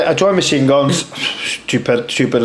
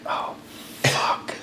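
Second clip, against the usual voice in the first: hushed, sinking "oh, fuck"; whispered dread; 13 dB quieter than usual. Retold or imitated. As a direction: let it out under your breath, mostly air. Dread at being summoned by superior.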